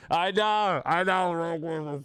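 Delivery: high, drawn-out wail; mock anguished admission. Streamer chided over Star Wars lore, mock anguished wail. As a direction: wail it in exaggerated shame.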